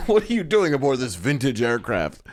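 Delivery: a touch of a stiff, hammed-up actor voice; mock wooden delivery of the pilot's line; stilted movie line. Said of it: "He goes".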